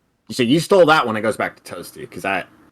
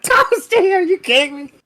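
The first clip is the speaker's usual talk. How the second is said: much higher, louder mock yell; mock scream; 4 dB louder than usual. Host imitating listeners yelling at a guest. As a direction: play the listeners yelling at Toasty. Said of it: "Everybody's screaming right now".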